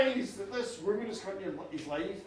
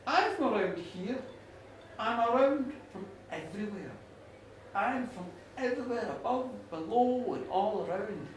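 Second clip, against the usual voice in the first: lightly voiced enigmatic goddess, measured and lower; hint at otherworldly origins, lower and unhurried; mysterious goddess; 4 semitones lower, 5 dB quieter than usual. Goddess telling farmer where she is from, lightly mysterious.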